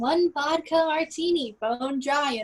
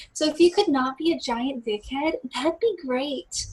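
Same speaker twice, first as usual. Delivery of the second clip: annoyed waitress. Acted. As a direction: scold a rude customer with fake politeness. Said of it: "obviously annoyed".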